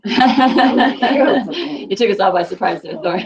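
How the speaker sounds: amused, words mixed with laughter; laughing. Real, not acted. Teacher teasing student who surprised the class, laughing. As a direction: say it through a laugh.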